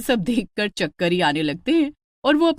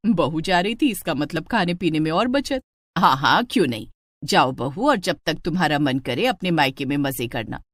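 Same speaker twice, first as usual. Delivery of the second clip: lower, coaxing mother-in-law voice; 4 semitones lower than usual. Acted. Mother-in-law coaxes the bride not to cook, lower voice. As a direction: talk her out of cooking sweetly.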